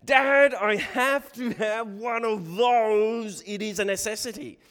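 put-on high, loud pleading kid voice; pestering child. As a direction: nag Dad like a desperate nine-year-old, hammed-up. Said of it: "I would bug my dad".

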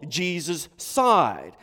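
ordinary delivery

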